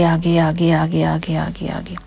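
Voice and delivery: slow whispered ahead ahead. Retold or imitated. Mother describing son running off, slow whisper. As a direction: draw it out breathlessly hushed.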